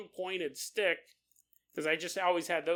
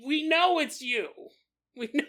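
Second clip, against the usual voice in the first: scared friend; 9 semitones higher, 5 dB louder than usual. Retold or imitated. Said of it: "Matt goes".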